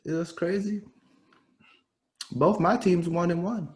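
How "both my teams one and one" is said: "Both my teams one and one" pitched high; raised-pitch announcement. Real, not acted. Fan telling co-host about his teams, "Both my teams one and one" pitched high. Same line said two ways.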